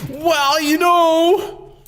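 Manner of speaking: very high, lilting well, you know; high sing-song tease. Pretend. Streamer taunting the opponent, high sing-song. Repeated catchphrase, sung out high.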